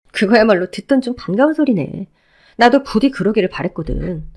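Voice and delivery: lightly voiced ex-wife, cold and scornful; a hint of a scornful woman cutting him down. Ex-wife rebuffing her ex-husband, lightly voiced cold scorn.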